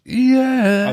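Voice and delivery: high eerie drawn-out yeah; scary voice. Acted. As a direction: spook them with a creepy high yeah. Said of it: "that scary voice".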